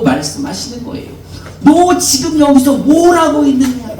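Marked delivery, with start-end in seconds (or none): 1.6-3.9 higher, stern rebuke; rebuking question. Acted. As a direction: ask it as a reproach, not a greeting. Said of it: "책망하고 계십니다". (엘리야를 책망하는 하나님, 높고 엄하게)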